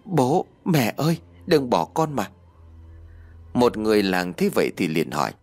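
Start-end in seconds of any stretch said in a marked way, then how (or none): 0.0-2.3 high, pleading child's cry, lightly acted; a child wailing over his parents, higher voice. A narrator's reading. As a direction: call out to dead parents in a high wail. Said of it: "gào lên".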